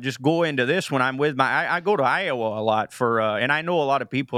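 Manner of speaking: light put-on Midwest accent; Midwest impression. Shown as a demonstration. Comedian showing hosts the in-laws' Midwest talk, Midwest impression. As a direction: slip into an easy Iowa Midwestern accent. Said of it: "do you have a Midwest accent impers-, like, impression".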